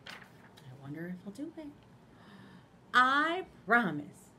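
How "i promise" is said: loud, slow teary promise; sniffling promise. Acted. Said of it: "Little Hamster sniffled".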